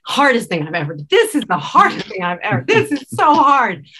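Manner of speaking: overwhelmed director grumbling, then wailing; exasperated self-talk. Retold or imitated. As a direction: play it as mock despair that builds until it breaks open. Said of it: "I literally walk around going".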